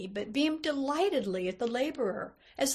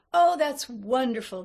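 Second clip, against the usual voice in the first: put-on louder, delighted old man's exclamation; 2 semitones higher, 6 dB louder than usual. A narrator's reading. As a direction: exclaim with open pleasure. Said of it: "said with delight".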